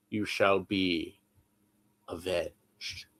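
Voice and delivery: slow, grave Rickman-style line; Alan Rickman voice. Retold or imitated. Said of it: "say that stupid line one more time".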